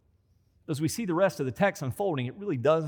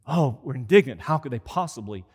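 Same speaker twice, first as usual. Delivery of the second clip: mock indignation. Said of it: "envy often comes dressed in spiritual clothes".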